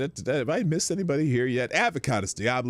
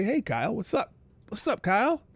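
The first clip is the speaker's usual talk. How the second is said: higher-pitched, lightly voiced cartoon greeting; South Park voice; 8 semitones higher than usual. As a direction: toss out a hint of a cartoon kid. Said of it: "South Park voice".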